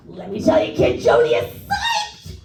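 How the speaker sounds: mock tour manager hollering his enthusiasm; Tommy Neptune. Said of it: "it's more of a yelling".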